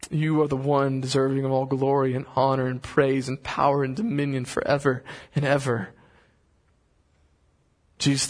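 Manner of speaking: slow, reverent prayer voice; lightly voiced prayer. Leads closing prayer.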